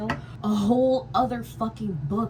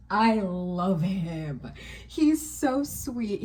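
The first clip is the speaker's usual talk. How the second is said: gushing fondly; much slower than usual. Real, not acted. Gushing over favourite character.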